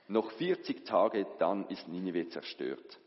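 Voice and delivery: slow, weighty prophecy; solemn proclamation. Acted. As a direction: announce doom slowly to the city. Jona proclaims city's doom.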